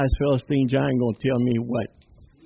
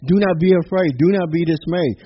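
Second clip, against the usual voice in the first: forceful, rising proclamation of a verse; emphatic scripture reading; 2 semitones higher, 4 dB louder than usual. Real, not acted. Preacher declares Joshua's verse to the congregation, emphatic.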